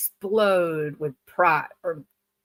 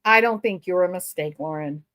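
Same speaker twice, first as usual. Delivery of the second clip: mock reassuring; 5 semitones lower than usual. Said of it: "consoling contestant on screen".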